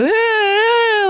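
high drawn-out whining "ah"; imitated toddler whine. Mother imitating a kid's whining cry. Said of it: "kind of whining, carrying on".

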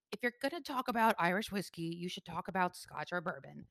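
mild snooty know-it-all mimicry; lightly mock a whiskey snob; teasing the connoisseurs with a hint of snobbery. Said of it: "That's my mocking voice".

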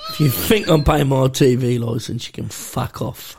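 low, growled mock hard-man threat, slow at the end; hard man prisoner. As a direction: play a lightly voiced tough old convict. Continuing Bronson impression.

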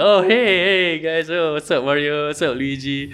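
high, cheery hello to the mascots; cheery greeting. Retold or imitated. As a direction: greet them like a proud dad. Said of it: "Miyamoto's like".

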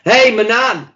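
high, loud imitated call-out; retold shout. Imitating someone shouting at Ant as he runs past, loud call. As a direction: holler it like hailing someone running past. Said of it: "he shouted at him".

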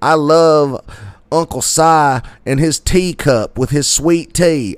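high, loud Southern redneck twang; exaggerated redneck accent. Fan gushing about a TV uncle, exaggerated redneck accent. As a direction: lean hard into a redneck accent. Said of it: "extenuating my redneck accent".

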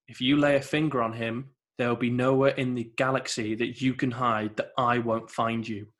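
calm, unemotional menace; deadpan threat. Retold or imitated. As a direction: deliver the threat as plain fact. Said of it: "he says it deadpan".

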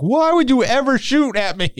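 high-pitched imitation of an outraged sergeant; mock outrage. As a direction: protest in exaggerated disbelief, without extra volume. Retold sergeant outraged at being shot.

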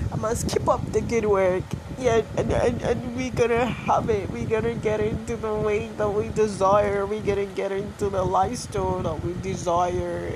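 pep talk. Real, not acted. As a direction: psych yourself up. Self-pep talk building.

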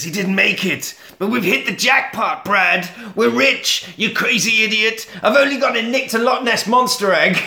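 acted excitement. Crook telling his partner about the egg, acted excitement. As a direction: play a thrilled crook breaking big news.

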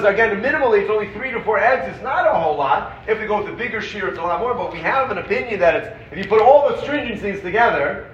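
hammed-up rebuke; playful exasperated scolding about cake at Kiddush; mock scolding rabbi. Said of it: "so the Rav Moshe would say".

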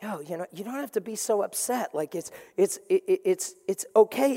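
an arm around the shoulder, soothing; gentle comforting. Retold or imitated. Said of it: "put their arm around you like".

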